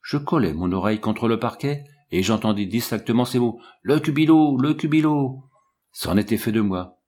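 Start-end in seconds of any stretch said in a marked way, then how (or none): 3.8-5.4 loud, higher cry of "Le cubilot", falling each time; alarmed shout. A narrator's reading. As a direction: yell up the stairs in panic. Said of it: "le savant criait toujours".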